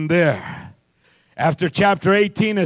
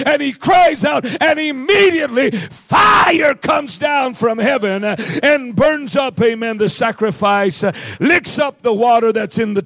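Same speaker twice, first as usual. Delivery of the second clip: fired-up preaching; 3 semitones higher than usual. Real, not acted. Preacher telling how fire comes from heaven, fired-up preaching. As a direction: punch out the miracle with rising force.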